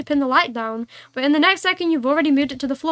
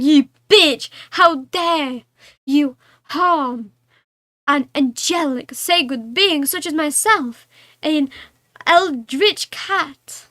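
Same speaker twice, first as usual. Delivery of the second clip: offended cat rant; much slower than usual. Acted. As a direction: scold like a haughty outraged cat. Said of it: "He's like".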